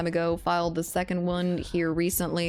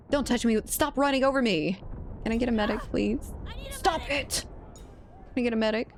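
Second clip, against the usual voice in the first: man down shout; 5 semitones higher than usual. Real, not acted. Downed, run over, calling medic.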